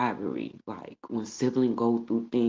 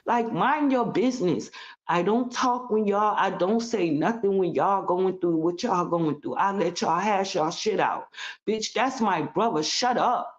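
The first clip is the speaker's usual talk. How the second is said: higher, heated retold outburst; retold angry retort; 5 semitones higher than usual. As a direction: snap back at her, heated. Retold yelling at sister-in-law.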